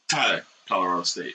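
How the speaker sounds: fast, low player intro; football player intro. Acted. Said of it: "the people doing their intros on football".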